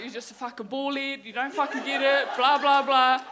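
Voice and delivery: loud mock rant, building to a shout; retold anger. Pageant winner cursing the manager backstage, retold angry rant. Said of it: "I was so angry with the managers".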